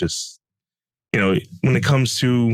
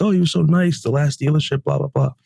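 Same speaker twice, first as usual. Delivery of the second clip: high, gushing thankful voice; grateful customer gush; 8 semitones higher than usual. Retold or imitated. Calmed customer thanking the sales manager, high and gushing.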